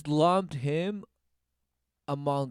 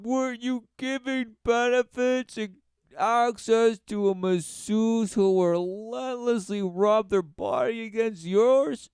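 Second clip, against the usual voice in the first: mock indignant question; 5 semitones higher than usual. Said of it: "you'll be like".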